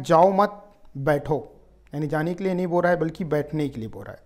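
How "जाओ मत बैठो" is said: slow जाओ मत together, then a separate falling बैठो; pause after मत. Shown as a demonstration. Teacher recapping the sit meaning, pause after मत. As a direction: break between मत and बैठो. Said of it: "अल्प विराम के ऊपर यहाँ पे पता चल रहा है".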